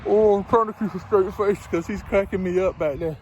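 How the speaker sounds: words pushed out while laughing; trying to keep a straight face; through laughter. Real, not acted. Trucker laughing at the agent's angry voicemail, laughing through.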